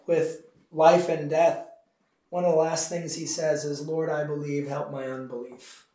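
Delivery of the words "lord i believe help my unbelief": mild imitated gasping. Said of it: "as he's gasping for breath".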